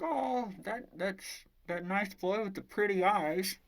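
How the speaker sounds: high-pitched, chatty girl impression; dog sitter. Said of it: "And she's like".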